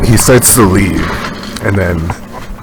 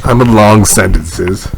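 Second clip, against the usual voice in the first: slowed, halting speech; 3 semitones higher, 4 dB louder, slower than usual. Real, not acted. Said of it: "You immediately slowed down".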